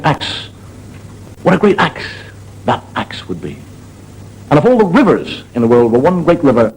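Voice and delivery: rhythmic recital building to a big shout; storytelling build. Acted. Comedian reciting a nonsense rhyme to the audience, building.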